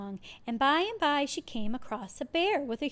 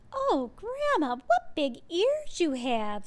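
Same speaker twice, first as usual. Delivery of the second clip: put-on wondering girl; 6 semitones higher, 3 dB louder, slower than usual. A narrator's reading. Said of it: "said Little Red Riding Hood".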